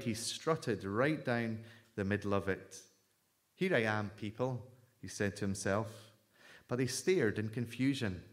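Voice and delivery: storyteller reading a fable to the congregation; preacher telling a children's fable; story narration. A narrator's reading. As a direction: read the donkey story aloud, lively. Reads Palm Monday story aloud.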